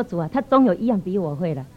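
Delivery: subdued, giving in; humbled admission. Retold or imitated. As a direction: concede it meekly to the Lord. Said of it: "我那天我就谦卑下来了".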